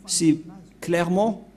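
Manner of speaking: ordinary delivery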